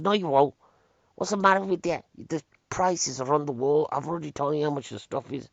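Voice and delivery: imitated indignant telling-off; retold snapping. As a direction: act out a fed-up shopkeeper arguing back. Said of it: "the bloke just cracked behind the counter".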